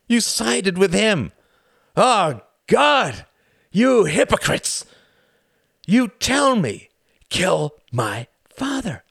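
high, loud fanatic tirade; ranting count. Acted. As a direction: preach his hatred at Klaus. Count Orski ranting at Klaus.

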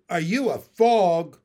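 loud, baffled echo question; big puzzled question landing on "fog"; incredulous echo. Acted. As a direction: repeat it loudly in disbelief, with FOG as the odd word. Narrator frog repeats the odd question.

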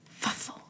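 soft whispered snuffle from inside a trunk; a creature's hushed snuffle in the trunk; muffled snuffle. A narrator's reading. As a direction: breathe a tiny snuffle through the lid. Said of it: "came from the trunk".

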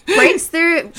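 laughing through the words; giggling while retelling the gory bit. Real, not acted.

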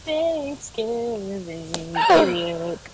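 very slow, stretched-out rapper imitation; a rapper. Co-host mimicking a rapper for Thanksgiving, slow drawl. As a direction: drag it out like a rapper.

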